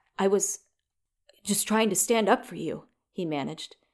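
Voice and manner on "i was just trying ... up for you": trembling, wavering, unsteady voice. Runyon answers Dakota after confronting Carmichael, his voice quavering. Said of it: "His voice was quavering".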